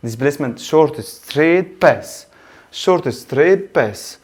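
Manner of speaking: each word spaced out for note-taking; slow dictation. Shown as a demonstration. Teacher to his students, slow dictation. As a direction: read it out slowly so students can write.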